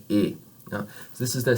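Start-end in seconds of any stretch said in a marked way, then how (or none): 0.1-0.3 "e" held steady, without a glide; tense French "e", tongue midway; pure French vowel. Shown as a demonstration. Teacher showing students the target, steady French "e". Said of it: "you wanna do it more like".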